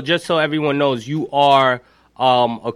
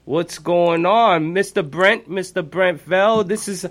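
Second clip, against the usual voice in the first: higher, slow, drawn-out welcome; excited radio host; 6 semitones higher, 3 dB louder, slower than usual. Pretend. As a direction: hype up the surprise caller like a radio host. Host greets a surprise caller.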